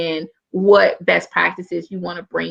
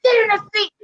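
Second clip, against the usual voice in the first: yelling; 14 semitones higher, faster than usual. Retold or imitated. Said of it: "I'm yelling".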